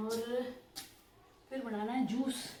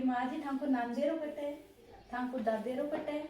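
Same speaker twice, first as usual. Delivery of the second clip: put-on child's Marwari question; 3 semitones higher, 3 dB louder than usual. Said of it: "सानू पूछ रही है कि".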